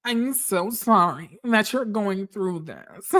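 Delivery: slow, lightly voiced imitation of a consoling castmate; gently mock her sympathy, drawn out; imitating Britt. Host imitates Britt consoling Shamia, lightly mocking. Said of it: "I'm gonna try to do the voice".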